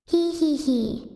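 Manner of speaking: slow, deliberate "hee hee hee"; mock evil giggle. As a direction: spell out a villain's giggle slowly. Playing the evil genius.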